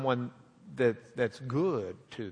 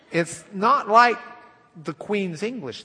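joke retold; 6 semitones higher, 6 dB louder than usual. Shown as a demonstration. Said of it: "I love that joke".

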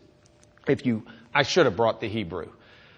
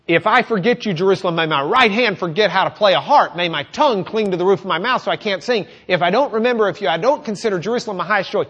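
loud, raised, emotional psalm reading; visceral reading; 7 semitones higher, 8 dB louder, faster than usual. Shown as a demonstration. Preacher showing how visceral the Hebrew sounds, loud. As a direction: spit out the Hebrew feel, fierce and raw. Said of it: "this starts sounding very visceral".

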